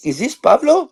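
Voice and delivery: high, suspicious teacher voice; science teacher. Retold or imitated. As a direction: imitate a teacher smelling a prank. And she goes.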